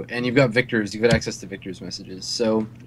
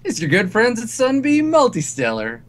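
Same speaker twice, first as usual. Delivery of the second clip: corny cowboy voice; 6 semitones higher than usual. Acted. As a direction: play a hokey cowboy ad voice. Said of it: "this kinda corny sounding, like, cowboy voice comes on".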